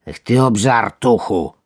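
slow, scolding big frog; tut-tut at a glutton; disapproving. Acted. Big frog scolds her greedy friend, slowly. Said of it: "rzekła większa z potępieniem".

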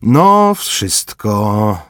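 sharp high loud burst then easing; panting grunt. Acted. Corporal finishing tugging off a ring, panting grunt. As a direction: grunt with effort as it comes free. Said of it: "sapnął Zajcew".

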